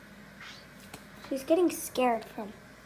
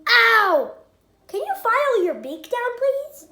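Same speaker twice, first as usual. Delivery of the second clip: loud pained cry; 8 semitones higher, 11 dB louder than usual. Real, not acted. Bird bites her.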